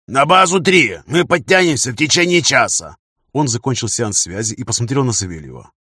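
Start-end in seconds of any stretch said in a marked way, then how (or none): 0.1-3.0 loud, high command over radio; forceful raised-voice instruction; barked order. Acted. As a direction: issue urgent orders at volume. Same barked radio orders continue.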